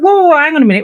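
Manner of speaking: high, loud whoa, hang on; retold loud stop. Friend stopping her walking out, loud and high. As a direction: bark her back to her seat.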